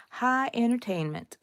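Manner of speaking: soft mock-grand repeat of High entertainment; wry echo. Shown as a demonstration. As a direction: savour the phrase High entertainment.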